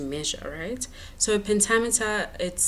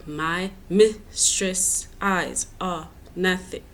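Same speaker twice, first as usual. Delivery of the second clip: slow, syllable-by-syllable "my mistress eyes are nothing"; alternating stressed syllables; much slower than usual. Shown as a demonstration. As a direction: beat out "my mistress eyes are nothing", strong then weak. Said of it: "stress, unstress, stress".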